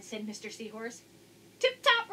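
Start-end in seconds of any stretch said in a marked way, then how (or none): 1.6-2.1 cheery exclamation. Acted. Cheerful fish reply.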